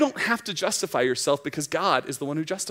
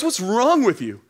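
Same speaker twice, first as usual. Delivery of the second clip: harsher, slower disgust; contemptuous scold; 6 semitones higher than usual. Retold or imitated. Preacher voicing an imagined God scolding the wanderer, contemptuous. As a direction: spit the words out in scorn.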